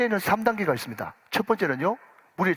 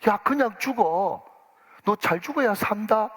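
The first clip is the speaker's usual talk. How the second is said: consoling repeat; 5 semitones higher, slower than usual. Retold or imitated. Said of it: "그러더래요".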